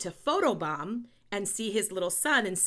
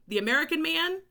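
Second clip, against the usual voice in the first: higher-pitched, set-off words as if in quotes; air quotes; 6 semitones higher than usual. Real, not acted. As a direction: put audible quote marks round it. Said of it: "I did quotes, air quotes there".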